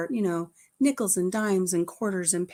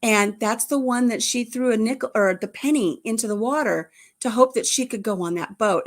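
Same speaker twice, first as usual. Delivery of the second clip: excited inner voice; 3 semitones higher, 4 dB louder than usual. Retold or imitated. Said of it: "It's like".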